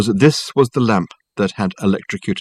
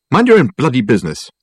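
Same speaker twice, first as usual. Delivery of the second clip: louder savage snap; 5 semitones higher, 4 dB louder than usual. Acted. Michael snaps savagely at the nosy cab driver. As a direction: snap it back at the cabby. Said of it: "snapped Michael savagely".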